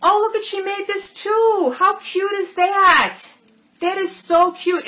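excited cooing over a handmade present; thrilled squeal. Real, not acted. Delighted by a handmade gift.

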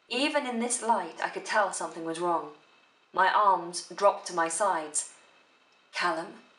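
slight emotional pause before "Callum". Shown as a demonstration. Teacher reading from Noughts and Crosses, emotional pause. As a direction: let the feeling hold you a moment, then set "Callum" apart. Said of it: "Just a slight pause".

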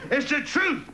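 high-pitched mock yell; tramp's yell. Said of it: "the tramp yelled out".

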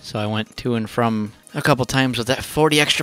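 breathless from carrying; panting between words; out of breath. Real, not acted. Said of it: "I'm out of breath".

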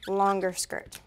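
unvoiced, hushed little aside; whispered aside. Real, not acted. Crafter whispers her own choice to viewers, hushed. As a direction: drop to a whisper as if telling a secret.

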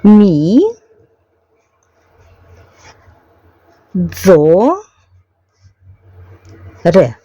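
Мі, дзо, ре spelled out as three separate syllables with long pauses. Shown as a demonstration. Vlogger sounding out the word while writing it in hiragana, slow. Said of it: "пишеться так".

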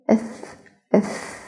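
whispered soft thaa; very quiet. Shown as a demonstration. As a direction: breathe it out, no voice. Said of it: "صوت الثاء بالسكون".

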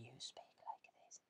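voiceless whisper, breath only. Shown as a demonstration. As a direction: speak using only your breath. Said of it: "then that is a whisper".

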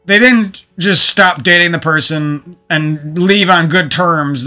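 ordinary talk

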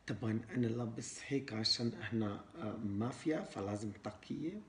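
put-on foreigner speaking broken Arabic with an accent; Arabic with a Western foreign accent. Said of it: "إحنا لازم نحكي عربي مكسر".

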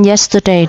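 "yesterday" stressed on YES, the first syllable. Shown as a demonstration. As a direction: put the beat on YES in "yesterday". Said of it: "trọng âm một".

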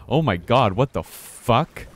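loud, drawn-out shocked cry; real jump-scare shout; startled shout. Real, not acted. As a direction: yelp in fright then stretch the question. Scared by monster in game.

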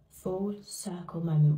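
early-morning hushed whisper. Real, not acted. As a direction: whisper so nobody wakes up. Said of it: "Whispering because it is so early".

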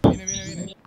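alerta tensa. Real, not acted. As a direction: warn your teammate, urgently. Enemigo acercándose en la partida. (aviso urgente, más agudo y fuerte)

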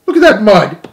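high, loud frantic cry; desperate shout. A narrator's reading. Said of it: "cried Stuart desperately".

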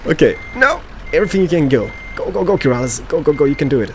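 urgent go go go; excited cheering. Real, not acted. Cheering himself on, parking.

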